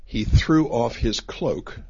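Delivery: slow, deliberate reading of "He threw off his cloak"; slow scripture reading. Shown as a demonstration. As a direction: read the verse out slowly. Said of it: "It says there".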